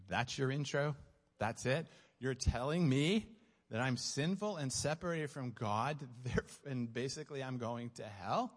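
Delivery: mock-incredulous questioning, phrase by phrase; retold incredulity. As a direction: echo the pitch back as a disbelieving question. Retold woman's disbelieving reply to pitch.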